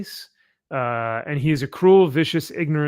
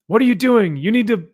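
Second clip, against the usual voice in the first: high, loud exasperated rebuke; mock scolding; 8 semitones higher, 6 dB louder than usual. Lobo telling off the guy at the bar, mock scolding. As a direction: scold in playful outrage, pitched up.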